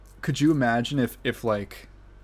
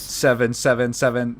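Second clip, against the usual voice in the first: bad robot reader. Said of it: "it just starts going".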